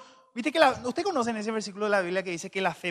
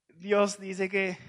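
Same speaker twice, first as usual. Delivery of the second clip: ordinary talk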